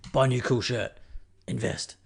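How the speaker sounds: mock investor voice, terse and deadpan; lightly voiced finance guru giving orders; investment voice. Podcaster joking about investing, lightly voiced investor. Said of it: "That's my investment voice".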